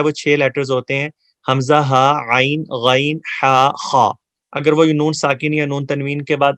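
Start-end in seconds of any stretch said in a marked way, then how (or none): 1.5-4.1 each letter sounded clearly from the throat; teacher sounds out hamza, ha, ain, ghain, ha, kha; throat letters spelled out. Shown as a demonstration. استاد حلقی حروف واضح ادا کرتا ہے. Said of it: "حروف ہلکی کا مطلب یہ ہوتا ہے".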